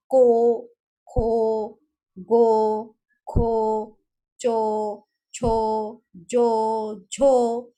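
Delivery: each syllable from को to झो said loud and separate, ending in a round o; loud syllable drill. Shown as a demonstration. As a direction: call each sound out like a teacher drilling. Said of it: "ऐसे उसका उच्चारण होगा".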